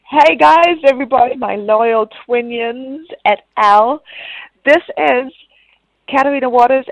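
upbeat hyped-up wrestling promo. Pretend. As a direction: hype the crowd like a ring announcer. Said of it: "Katrina Tries to Cut a Promo".

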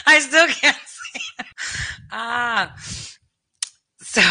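breaking up into giggles mid-sentence; can't get the words out for laughing; laughing helplessly. Real, not acted. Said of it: "crying laughing".

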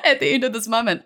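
high, loud, laughing cheer; excited go-girl cheer breaking into laughter; cheering audience. Retold or imitated. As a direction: whoop her on like a thrilled crowd. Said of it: "everybody had this sense of".

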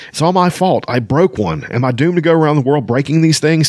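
high-pitched distraught lament; wailing. A narrator's reading. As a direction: wail it out in self-blame. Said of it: "Taz wailed incoherently".

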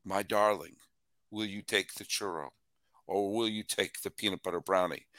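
hammed-up lover, low and soft in a vague European accent; made-up accent. A sponsor read turned into a mock lover asking his darling, hammed-up generic European accent. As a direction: croon the choice like a mock suitor. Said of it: "what accent did I suddenly create".

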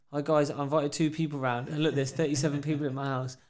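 loud, put-on address to camera; mock video appeal. Party host filming a fake plea for proof, loud. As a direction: announce the problem loudly for the phone. Acting a video to post online.

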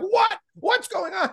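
very high, startled parent; high-pitched acted fright; mock alarm. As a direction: re-enact a panicked reaction to a scream. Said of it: "she screams like I'm about to run over a puppy".

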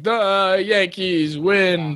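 lightly imitated announcer, very slow and stretched; a hint of a broadcaster savoring the win; John Sterling call. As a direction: drag it out like a home-win radio call. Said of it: "John Sterling".

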